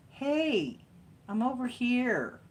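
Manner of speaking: high, loud cat voice calling out; voicing the cat. Owner voicing her cat calling for attention, high and loud. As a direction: pipe up as the cat wanting attention. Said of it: "go like that with his paw".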